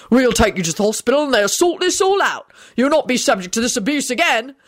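slightly loud medic. A narrator's reading. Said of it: "said in a loud voice".

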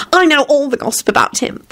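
high, eager gossip; gleeful. A narrator's reading. Solange eager to spill gossip, high and gleeful. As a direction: gush it gleefully. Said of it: "she yelped gleefully".

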